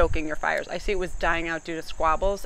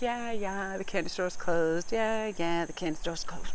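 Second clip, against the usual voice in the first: dismissive brush-off; 2 semitones higher, slower than usual. Acted. Acts dismissing an admirer.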